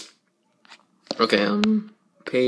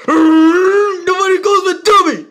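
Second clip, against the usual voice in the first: slow, much higher, loud outraged yell on "Tubby"; furious shout; 6 dB louder, slower than usual. Acted. Character insulted as Tubby, hammed-up furious yell. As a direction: bellow it like a cartoon hothead.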